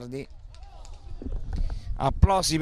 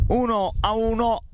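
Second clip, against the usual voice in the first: excited commentary; 7 semitones higher than usual. Real, not acted. Equaliser announced.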